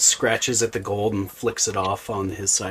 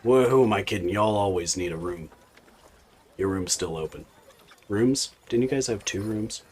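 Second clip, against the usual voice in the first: loud, fast tavern barkeep; gruff barkeep; 4 dB louder than usual. Acted. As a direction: bellow it like a busy barman. GM voices the barkeep.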